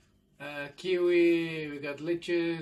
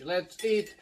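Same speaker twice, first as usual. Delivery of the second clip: booming show slogans, drawn out; hammed-up TV host shout; loud slogan calls; 3 semitones higher, 8 dB louder, slower than usual. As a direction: belt out the catchphrases, louder and higher.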